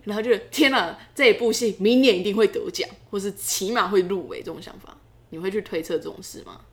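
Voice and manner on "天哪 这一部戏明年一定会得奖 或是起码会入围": excited inner voice. Retold or imitated. Imagining thought about award.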